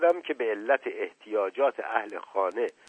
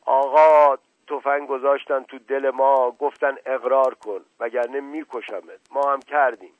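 much louder, shouted plea; shouting from behind a door; 4 semitones higher, 8 dB louder than usual. A narrator's reading. Servant yelling to his master from the kitchen, loud shout. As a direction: yell it through the thick kitchen door. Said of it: "صدای مشقاسم بلند شد که فریاد زد".

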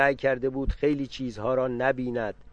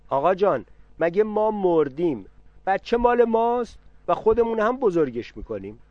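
raised, higher voice of a protesting aunt; indignant aunt; 7 semitones higher, 5 dB louder than usual. A narrator's reading. Aunt protesting loudly to her brother about the child.

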